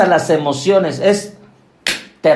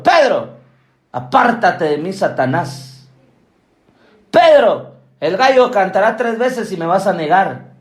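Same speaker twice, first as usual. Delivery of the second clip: stern rebuke. Retold or imitated. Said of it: "Jesús le dice a Pedro".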